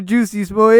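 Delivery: loud, high mock-French name; "Jussie Smollett" said loudly as French "Juicy Smo-yay"; Frenchify the name, "Smollett" ending on "-ay"; fake French accent. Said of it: "in a fucking fake-ass French accent".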